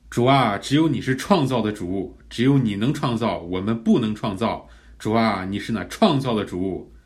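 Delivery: earnest declaration in prayer; 示范祷读. Shown as a demonstration. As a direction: pray the verse back to God with conviction. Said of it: "我们就可以来导读神创造". (恳切宣告式的祷告)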